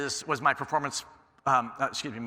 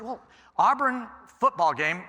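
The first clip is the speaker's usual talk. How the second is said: eager pitch; 7 semitones higher, 4 dB louder, slower than usual. Retold or imitated. Pitching the eagle idea to planner.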